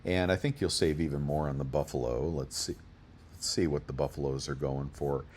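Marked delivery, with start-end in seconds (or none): 2.3-5.2 talking through hiccups; speech broken by hiccups. Real, not acted. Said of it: "Pardon me, I got the hiccups".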